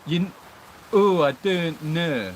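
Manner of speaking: slow, drawn-out mock Leeds accent; lightly imitated Leeds accent. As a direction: stretch it out like a Leeds man. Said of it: "That's like a Leeds accent".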